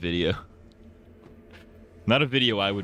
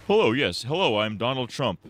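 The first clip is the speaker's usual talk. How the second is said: regal Trump; 4 semitones higher than usual. Retold or imitated. Streamer imagining Trump talking normally, mock regal tone. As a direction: play Trump suddenly sounding refined. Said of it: "a very regal, a regal tone".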